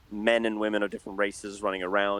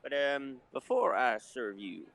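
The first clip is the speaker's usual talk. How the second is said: bartender voice; 2 semitones higher than usual. Acted. GM holds the bartender voice.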